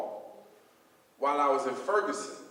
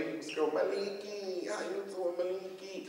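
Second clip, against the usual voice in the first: Lee Daniels; 5 semitones higher, 4 dB quieter than usual. Retold or imitated. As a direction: imitate a friend's high-pitched, stretched-out hello. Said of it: "that's how Lee talks sometimes".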